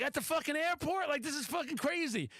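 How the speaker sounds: high, giddy mock disbelief; excited disbelief. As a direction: retell it like you can't believe your luck. Thrilled at being recognized.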